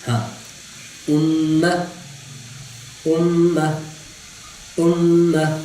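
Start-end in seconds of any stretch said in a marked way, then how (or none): 1.1-5.6 امہ with a jolted hamza; hamza drill. Shown as a demonstration. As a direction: start امہ with a glottal catch. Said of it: "امہ نہیں پڑھنا".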